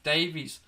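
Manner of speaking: Davies with a clear long DAY-veez, two syllables; pointed Davies. Shown as a demonstration. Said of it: "I say Davies all the time".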